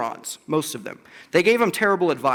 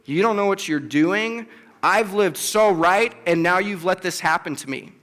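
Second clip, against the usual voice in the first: questioning authority. Retold or imitated. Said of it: "he questions God's authority".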